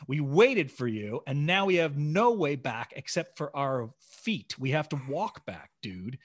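understated, emphatic scolding; mildly exasperated telling-off; retold anger. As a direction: lecture a friend who let you down. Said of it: "I'm so pissed".

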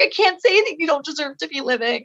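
a touch of tearful pleading, retold; high, lightly acted tearful confession; retold tearful sobbing. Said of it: "started streaming tears and sobbing".

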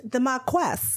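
lightly attempted British accent; a hint of put-on British. Shown as a demonstration. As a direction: try a mild, not quite convincing British accent. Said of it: "let's say it in a British accent".

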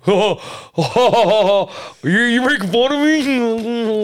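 put-on high, laughing, flattered kid; laughing delight. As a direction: giggle it out like you're finally liked. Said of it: "You'd be like".

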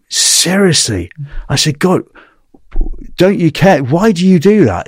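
can't believe what he's hearing; stunned, pressing him for why; shocked disbelief. Retold or imitated. Shocked questions to Wayne.

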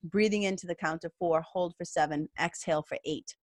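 guided breathing. Shown as a demonstration. Guiding viewers through the four seven eight breath, softening. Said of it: "It's called the four seven eight breath".

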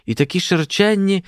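put-on high, aghast girlish voice; shocked exclamation. A narrator's reading. Olha on the student's wide trousers, aghast. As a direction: carry on the high-pitched amazement.

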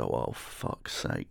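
put-on whispered weary dismay at the drunk's rant; whispered exasperation. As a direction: sigh it out under your breath. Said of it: "And I just go".

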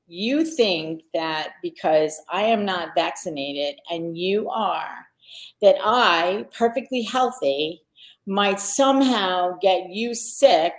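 slow, deliberate retold challenge; measured, pointed re-enacted retort; incredulous indignation. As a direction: spell it out in mild disbelief. Retold indignant confrontation of friend.

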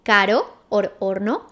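'caro' and 'horno' with a single soft tapped r. Shown as a demonstration. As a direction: tap the r once lightly in 'caro'. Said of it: "Soft R".

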